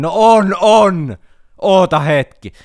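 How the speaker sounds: high, loud hurried yell through the door; flustered shout. Retold or imitated. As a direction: shout back that all is fine, a little panicked. Answering a stranger through toilet door. (hätääntynyt kova huuto vessan oven läpi)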